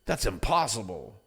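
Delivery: lightly mocking skeptic voice; doubtful whiner. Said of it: "And they'll say".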